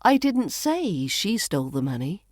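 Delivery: single out "say" with emphasis; stress on SAY. Shown as a demonstration. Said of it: "put the stress on a different word".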